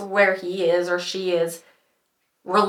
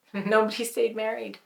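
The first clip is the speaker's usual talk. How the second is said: softer, with a rueful laugh; laughing repeat; 3 semitones higher, 5 dB quieter than usual. Real, not acted.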